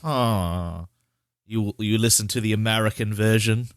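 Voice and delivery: attempted British accent slipping into Australian; British accent that comes out Australian; botched British accent. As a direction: play a snooty Brit with a wobbly British-Australian accent. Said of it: "I can't do a British accent anymore".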